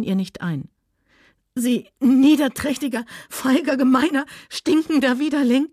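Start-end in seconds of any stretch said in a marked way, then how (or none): 1.5-5.7 higher, louder, spitting insults; furious shout. Acted. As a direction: hurl each insult at him. Scarlett hurls insults at Rhett.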